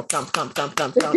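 low, soft rhythmic thumps; tail-thump imitation. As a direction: imitate a wagging tail hitting the floor.

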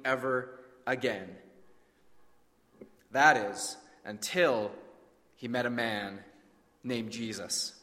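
vivid, measured story narration; preacher retelling a story with drama; dramatic sermon storytelling. A narrator's reading. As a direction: paint the leper's story for the congregation.

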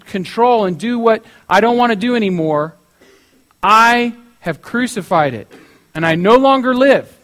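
put-on loud, deliberate declaration against the old self; emphatic renunciation. Preacher voices Paul renouncing old self.

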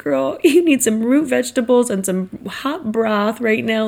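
a hint of a knowing mama, with a laugh; lightly voiced motherly scolding. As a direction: planner playing mama to an overworked guest, lightly voiced. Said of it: "like, a mama thing".

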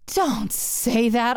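slow, drawn-out groan. Retold or imitated. Woman begging her lover not to apologize, groaning. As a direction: drag the words out in dismay. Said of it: "I groaned".

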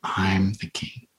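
slow breathy whisper. Retold or imitated. Jesus actor whispering to the client, slow whisper. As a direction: breathe it slowly into his ear. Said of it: "he whispers that back to the guy".

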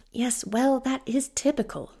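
a touch of a British physician, measured; doctor answers the worried father in a British accent. A narrator's reading. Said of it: "a delightful British accent".

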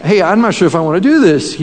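unsure, hurried and hedging; hesitant reluctance. Retold or imitated. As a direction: back away from the job, fast. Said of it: "he does this kind of".

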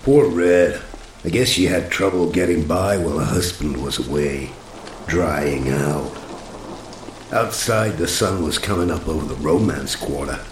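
hard-boiled narrator voice; world-weary private eye voiceover; noir detective. A narrator's reading. Hard-boiled first-person narration.

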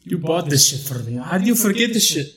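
put-on quick retort in a Middle Eastern accent. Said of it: "I'm still my Middle Eastern character".

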